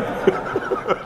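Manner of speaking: breathy high laugh at his own joke; a quick real laugh. Real, not acted. Preacher laughing at his own joke, a quick real laugh.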